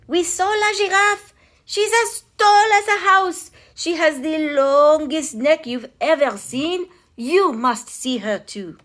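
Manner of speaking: high, loud, thrilled crowd voice; excited townsfolk. A narrator's reading. Townsfolk telling everyone about the giraffe, high and thrilled. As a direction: gush about the giraffe to a friend. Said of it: "They said".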